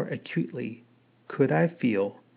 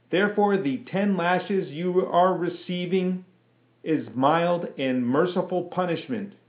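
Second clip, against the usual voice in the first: raised, higher stern lieutenant; stern officer; 6 semitones higher than usual. A narrator's reading. Lieutenant reprimanding the private before the lashing. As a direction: lecture him with cold authority.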